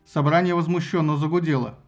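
plain reading voice

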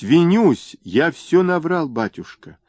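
high, pleading wail rising on винюсь; piercing wail. A narrator's reading. Merchant begging at the tsar's feet, piercing wail. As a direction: voice the terrified begging. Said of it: "пронзительно завопил".

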